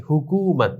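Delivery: হুকুমত with a long "koo"; long u vowel. Shown as a demonstration. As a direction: stretch "koo" inside হুকুমত. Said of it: "দীর্ঘকারের মতো উচ্চারণ হয়েছে". (হুকুমত-এ কূ টেনে উচ্চারণ)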